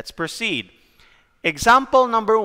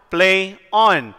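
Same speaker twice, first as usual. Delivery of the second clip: "Play on" with the stress on ON; "Play on" as a da-DUM foot; iambic pair; 3 dB louder than usual. Shown as a demonstration. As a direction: lean on "on" and let it fall. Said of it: "What are the pairs?".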